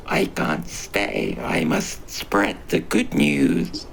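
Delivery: a tiny creature breathless with excitement; starstruck creature voice. Acted. Creature hurries off.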